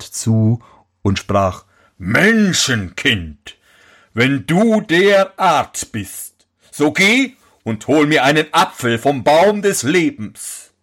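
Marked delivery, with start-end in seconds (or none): 2.0-10.7 slow, lightly voiced giant; a hint of a solemn giant. Giant sets the prince a task, lightly voiced.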